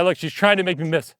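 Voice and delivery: ordinary talk, nothing marked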